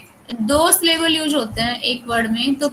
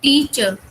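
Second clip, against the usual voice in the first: टीचर with टी held longer than चर; longer first syllable; slower than usual. Shown as a demonstration. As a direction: give टी more time in टीचर, चर less. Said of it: "टी को हम ज्यादा time ले रहे हैं".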